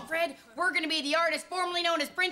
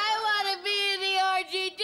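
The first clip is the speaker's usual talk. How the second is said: mock crying. Lucy's trademark wail.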